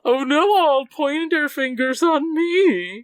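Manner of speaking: mock fear. Mock Pegasus fear, slow.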